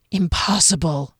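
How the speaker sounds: cold, ghostly disbelief; stern dismissal; menacing guard. A narrator's reading. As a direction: dismiss it as an otherworldly sentinel. Guard rejects captive's answer.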